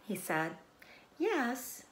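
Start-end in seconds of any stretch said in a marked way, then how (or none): 1.2-1.8 a sweet, musical "Yes". Acted. Spider answering the pig, sweet and musical. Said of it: "in her sweet musical voice".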